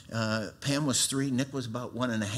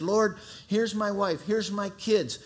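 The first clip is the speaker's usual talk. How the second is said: fervent prayer; 9 semitones higher, 4 dB louder, slower than usual. Retold or imitated. First altar prayer, taken back.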